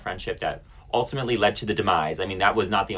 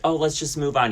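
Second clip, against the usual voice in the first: mock carefree; 7 semitones higher than usual. Mocking the friend at fault who wants out, mock carefree. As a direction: imitate someone breezily letting it go. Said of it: "Must be nice to be like".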